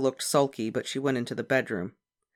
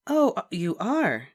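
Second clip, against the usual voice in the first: surprised; 7 semitones higher, 3 dB louder, slower than usual. A narrator's reading. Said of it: "said Miss Evans".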